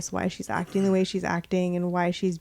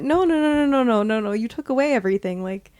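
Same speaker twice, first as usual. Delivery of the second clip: mock protest; 3 semitones higher than usual. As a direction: beg to have it all given back, half-joking. Player protesting the loss.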